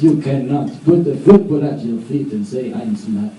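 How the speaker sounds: mock French artiste explaining; French accent. French artiste explains to the Swedes, French accent. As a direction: lecture in a put-on French accent, dropping at the end. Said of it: "they all speak with a French accent".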